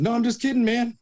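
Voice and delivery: nervous backpedal. Retold or imitated. Backpedalling to Barkley.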